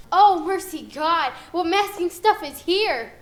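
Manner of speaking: loud declaiming, falling end; projected stage delivery. Shown as a demonstration. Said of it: "let me see the action".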